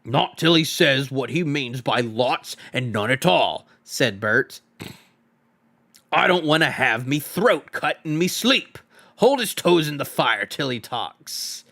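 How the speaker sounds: lightly voiced troll, stubborn; stubborn troll Bert. Troll Bert refuses to let the hobbit go, a hint of stubborn menace. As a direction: insist like a suspicious troll.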